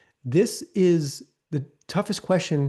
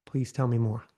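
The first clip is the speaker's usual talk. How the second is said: leaning in; 3 semitones lower than usual. Shown as a demonstration. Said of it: "So I'm leaning in".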